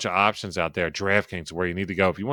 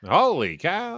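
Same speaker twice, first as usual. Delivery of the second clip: put-on higher-pitched old-time announcer exclamation; Phil Rizzuto; 9 semitones higher, slower than usual. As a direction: do the high-voiced Yankees broadcaster. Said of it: "with the higher voice".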